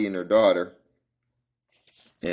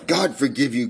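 anguished cry; 5 semitones higher, 3 dB louder than usual. A narrator's reading. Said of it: "cried Madame Carpentier".

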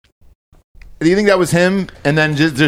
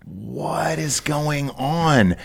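bewildered mock disbelief; 3 semitones higher, 7 dB quieter, much slower than usual. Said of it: "you're just like".

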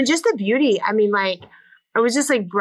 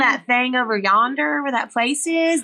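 dad's thick Southern country drawl, imitated; real country drawl; 4 semitones higher than usual. Daughter mimicking her dad for the host, country Southern drawl. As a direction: do a folksy Southern father talking. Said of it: "does real country".

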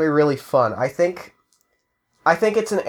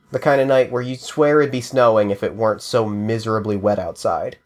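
moody noir scene narration; noir detective; 3 semitones lower than usual. A narrator's reading. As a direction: set a grim rainy city scene. GM opens scene, noir setting.

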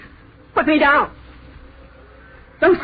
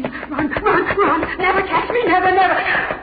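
hysterical laughter; 7 semitones higher than usual. Acted. Laughing while fleeing in a dream.

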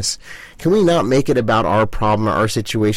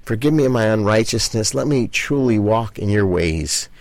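modelled prayer. Shown as a demonstration. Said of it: "get on your hands and knees and say".

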